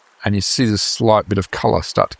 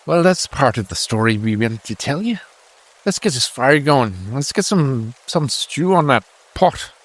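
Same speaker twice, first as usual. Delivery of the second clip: lightly voiced soldier, pitched up; friendly deserter; 5 semitones higher than usual. Deserter asking farmer for stew, lightly voiced and higher. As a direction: talk as an easygoing deserter, slightly higher. Game master plays a deserter.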